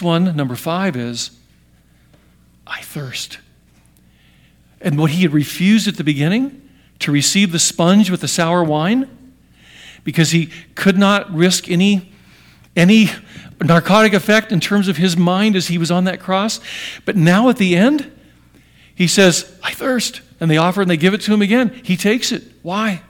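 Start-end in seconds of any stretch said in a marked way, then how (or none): 2.7-3.4 very soft, faint whisper; hushed, acted last-breath whisper; whispered dying words. Dying words retold from the cross. 19.6-20.2 soft but high, strained-upward call; acted cry of thirst, pitched up; higher-pitched plea. Same words, now before the victory shout.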